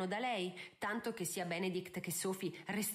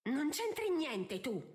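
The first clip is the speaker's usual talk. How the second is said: raised, drawn-out rebuke; angry hiss; 6 semitones higher, 3 dB louder, slower than usual. A narrator's reading. Mother telling her daughter to keep out, angrily. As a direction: shut her out with slow, high-pitched anger. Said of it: "sibilò Araminta".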